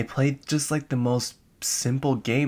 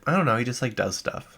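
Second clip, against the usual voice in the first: lightly imitated niece, higher pitched; offhand, high-pitched shrug of an answer; a hint of a niece's voice; 3 semitones higher than usual. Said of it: "And she's like".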